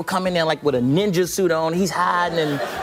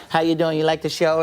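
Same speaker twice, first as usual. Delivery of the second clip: Prince; 4 semitones lower than usual. Retold or imitated. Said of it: "he was like".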